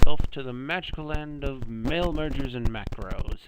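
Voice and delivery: bright, grand wonder at the magic; excited. Shown as a demonstration. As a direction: sell it like a fairy-tale trip. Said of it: "yeah, magical".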